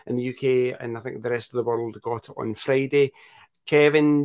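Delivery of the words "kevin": a louder, higher call of the name. Real, not acted. Host turning to co-host Kevin, calling his name out.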